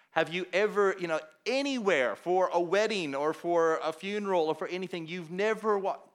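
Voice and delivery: can hardly believe what he's hearing; incredulous questioning. Retold or imitated. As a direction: reenact being astonished, pitch and volume up. Pastor retells his astonished questioning.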